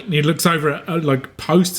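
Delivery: usual speaking voice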